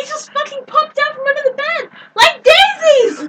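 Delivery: laughing. Real, not acted. Cat popped out.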